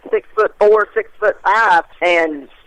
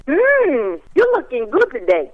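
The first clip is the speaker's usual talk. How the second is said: put-on higher-pitched, half-hearted Australian accent; attempted Australian accent; 5 semitones higher, slower than usual. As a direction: imitate an Australian flirt, accent badly faked. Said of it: "I don't know how to do the little accent".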